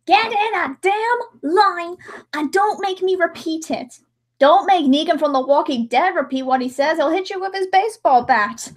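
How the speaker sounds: lightly voiced villain shouting orders; mock villain. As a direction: bark it like a hammed-up villain. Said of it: "They always go".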